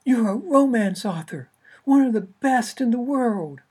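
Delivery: high, loud pushy agent on the phone. Acted. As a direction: push hard like an impatient agent. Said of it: "only a few decibels softer".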